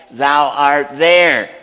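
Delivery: "thou art there" slow and loud, each word pressed; emphatic thou. Shown as a demonstration. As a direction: drag out "thou art there" with heavy weight. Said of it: "again, abrupt, emphatic".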